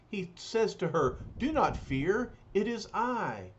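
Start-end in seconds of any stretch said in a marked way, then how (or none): 1.4-3.5 lofty, solemn alien hero; noble hero voice. Acted. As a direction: speak with calm grandeur. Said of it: "Then he speaks".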